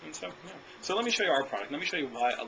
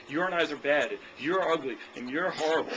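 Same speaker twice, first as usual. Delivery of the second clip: a mock-combative rep insulting the customer, slightly louder; 3 dB louder than usual. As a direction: pick a fake fight with the buyer, half joking. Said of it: "you don't wanna create a battle with the customer".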